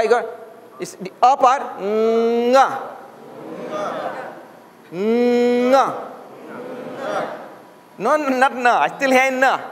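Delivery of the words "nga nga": nga starting straight on the nasal ng; nga without the a. Shown as a demonstration. Teacher showing nga with no leading a. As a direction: drop the a and begin nga on ng. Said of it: "you leave the a".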